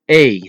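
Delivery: "a" as a long ay. Shown as a demonstration. Teacher showing the third Dutch E sound, long ay. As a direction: say "a" like the vowel in bay.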